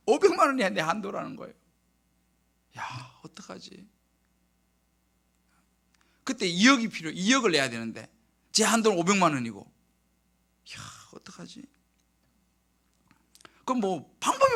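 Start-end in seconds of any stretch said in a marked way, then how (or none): 2.8-3.9 slow, hushed whisper to himself; retold murmur of worry; despairing whisper. 10.8-11.6 barely audible sigh of worry; retold hushed self-talk; despairing whisper. Retold despairing muttering to himself.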